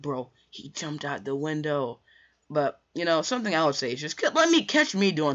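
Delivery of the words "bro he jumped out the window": slow, drawn-out words without shouting; subdued, slow amazement; stunned disbelief. Retold or imitated. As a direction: stretch each word as if you can't believe it.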